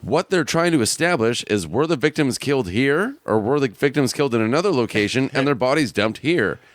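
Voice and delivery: mock TV reporter read; overly earnest newscaster; news reporter voice. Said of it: "The reporter's saying".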